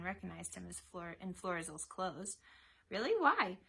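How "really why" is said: high, loud, officious questioning; raised, demanding interrogation; barking. A narrator's reading. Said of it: "Autolycus barked".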